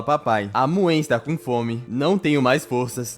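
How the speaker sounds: put-on slow, drawn-out pitiful little-girl plea; pitiful pleading. Hungry daughter begging her father to stop training, pleading slowly. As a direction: whine slowly like a starving puppy. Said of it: "com a cara de cachorro sem dono".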